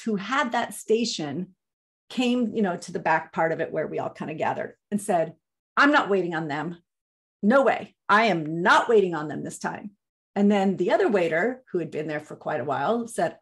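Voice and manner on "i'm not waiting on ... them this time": indignant refusal. Retold or imitated. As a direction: refuse the table with a touch of indignation. First waitress refusing the table.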